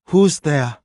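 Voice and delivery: loud, high angry growl. Acted. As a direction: bark it out, annoyed. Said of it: "she growled".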